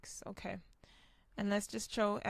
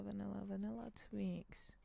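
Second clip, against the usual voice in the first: whispering; 7 dB quieter than usual. Shown as a demonstration. Repeating a pack name to himself.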